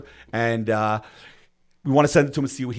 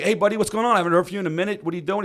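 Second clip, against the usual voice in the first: put-on higher-pitched, upbeat reply to an old pal; hearty greeting; 6 semitones higher, faster than usual. Answering a college friend's surprise call, hearty. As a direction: play up catching up with a buddy.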